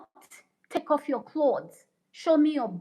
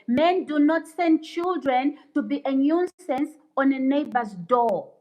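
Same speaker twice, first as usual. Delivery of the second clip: louder, higher, rapid-fire lecturing; heated rant; 4 semitones higher, 4 dB louder than usual. Real, not acted. Streamer scolding trolls about what real men do, heated. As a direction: hammer every point home as you lecture. Ranting at devil-worshipper commenters.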